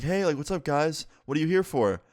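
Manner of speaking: lightly voiced high teacher, pitched well up; imitated stoned teacher. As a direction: greet them as a teacher who's too high. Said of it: "She looked like my friend when he gets too high".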